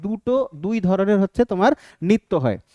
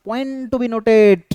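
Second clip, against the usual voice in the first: drawn-out emphasis; 2 semitones higher, much slower than usual. Real, not acted. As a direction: POINT TO BE NOTED, stretched very slowly. Teacher flags a key point. (টেনে টেনে, জোর দিয়ে বলা)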